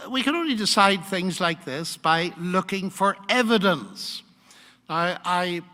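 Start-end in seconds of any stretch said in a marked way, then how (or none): 3.3-4.2 evidence pressed firmly and a bit louder; the key word evidence marked out; stress on evidence. Real, not acted. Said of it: "I emphasize the word evidence".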